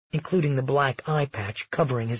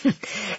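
scornful snort; 5 semitones higher, 4 dB quieter than usual. Acted. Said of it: "Felix snorted".

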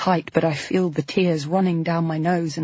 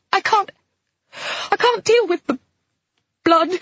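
very high, panicked voice; hysterical; 5 semitones higher than usual. A narrator's reading. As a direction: shriek in horror. Flo panicking at blood.

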